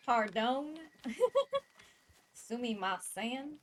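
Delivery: over-the-top Southern cowboy voice; exaggerated southern accent. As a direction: lay the Southern accent on thick. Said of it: "Nice southern accent".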